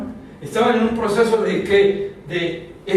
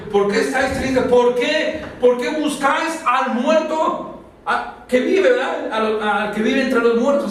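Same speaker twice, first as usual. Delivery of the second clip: angels' question; 3 semitones higher, slower than usual. Acted. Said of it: "los ángeles también le dijeron".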